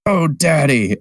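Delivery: mock-ecstatic little cry; mock delight. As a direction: swoon over the money, hammed-up. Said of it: "and just goes".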